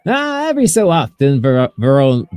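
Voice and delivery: captain Albion. Acted. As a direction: talk down fondly to the rat.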